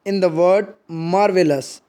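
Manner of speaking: marvelous with mar stressed, read slowly; slow example, weight on mar. Shown as a demonstration. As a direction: dactyl shown slowly. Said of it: "उसमें पहला जो word है उसमें stress दिया जा रहा है".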